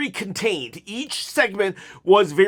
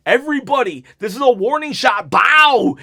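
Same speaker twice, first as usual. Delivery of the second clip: imitating a commanding call; 5 semitones higher, 5 dB louder than usual. Jimmy Uso commands the crowd.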